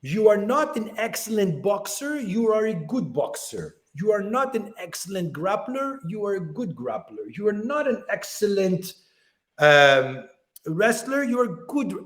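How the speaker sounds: lightly imitated Brazilian accent; a hint of a Brazilian accent, stressing each not. Champion telling Nick his skills, light Brazilian accent. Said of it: "with his, you know, Brazilian accent".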